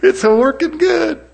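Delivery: hammed-up Pentecostal celebration; joyful whoop. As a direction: whoop it out like dancing for joy. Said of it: "I do the little Pentecostal dance".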